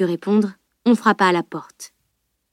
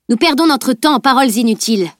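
higher, louder impatient outburst; sudden exclamation; 4 semitones higher, 5 dB louder than usual. Acted. Elana bursts out impatiently at the arguing friends. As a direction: cut through the talk with impatience. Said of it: "s'exclama soudain Elana".

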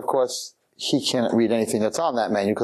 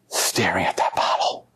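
low, near-whispered awe; hushed; 6 semitones lower than usual. A narrator's reading. Storyteller on the transfixed man, hushed. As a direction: drop low into a hush.

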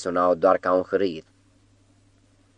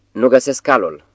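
lightly voiced cat, higher and louder; sweet, put-on innocence from under the bed; cat calling out in a fake warm voice; warm false tone; 5 semitones higher, 4 dB louder than usual. A narrator's reading. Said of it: "cu un ton cald și fals".

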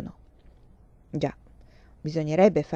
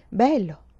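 kindly; 3 semitones higher, 4 dB louder than usual. Acted. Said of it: "lei rispose gentilmente".

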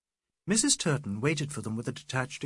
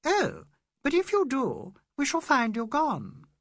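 mild dismayed cry; 12 semitones higher, 5 dB louder than usual. A narrator's reading. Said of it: "Then she cried".

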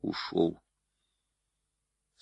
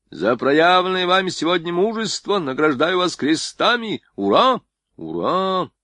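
loud, high general's address; roaring rallying speech; 8 semitones higher, 4 dB louder than usual. A narrator's reading. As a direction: rouse the troops with loud pride. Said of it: "обратился к солдатам с речью".

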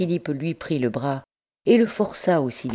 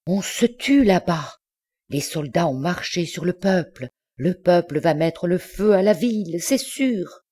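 higher, rising agitation; alarmed bourgeois; 5 semitones higher than usual. A narrator's reading. Bourgeois warning that the town will burn, alarmed. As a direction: spread the alarm, pitch climbing to the end. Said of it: "lui dit le bourgeois en balbutiant".

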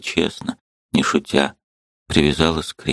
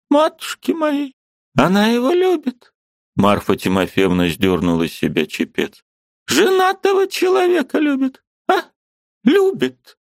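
put-on high, indignant old woman's voice; angry old aunt. Aunt bursting in to scold her niece, high and indignant.

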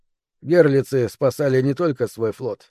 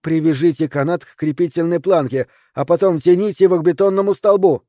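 rising, louder command; shouted orders; 4 semitones higher, 3 dB louder than usual. Acted. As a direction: call out instructions over the wind. Commands during storm rescue. (выкрикивает команды)

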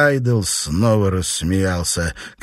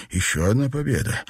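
plain reading voice

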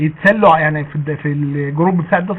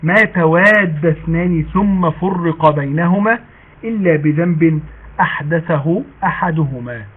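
hadith recitation; much slower than usual. Acted.

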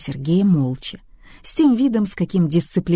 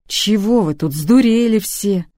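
indignant shout; 5 semitones higher, 5 dB louder than usual. A narrator's reading. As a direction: drag it out, furious and baffled. Husband wakes to chaos. (заспанный муж возмущённо орёт на всех)

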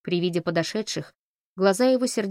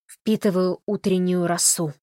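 slow, grand and solemn; solemn announcement. Acted. Holly solemnly explains his bare feet, slow and grand. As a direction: announce it like a sacred rite. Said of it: "торжественно сообщил Холли".

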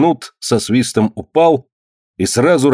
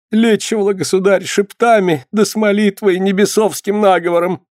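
tearful voice; 10 semitones higher than usual. Acted. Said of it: "заговорила плачущим голосом".

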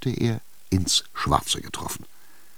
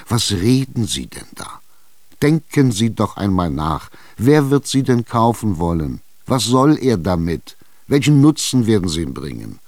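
insistent landowner, getting louder; Chichikov pressing; 3 semitones higher, 4 dB louder than usual. Acted. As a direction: push her hard, rising indignation. Tschitschikow redet auf Witwe ein. (Tschitschikow bedrängt die Witwe, zunehmend lauter)

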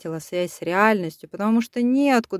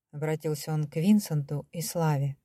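ordinary delivery

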